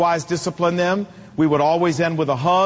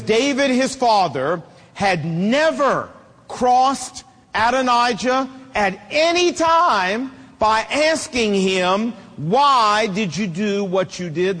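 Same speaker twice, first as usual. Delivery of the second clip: emphatic scripture reading; slower than usual. Acted.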